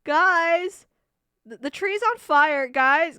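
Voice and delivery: loud, high alarmed calling; mock-panicked shouts for attention. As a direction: call out urgently across a distance. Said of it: "you can just hear her go".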